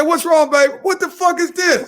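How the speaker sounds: high voice, laughing through it; laughing mock outrage. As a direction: ham up catching her out. Acted couple argument, laughing.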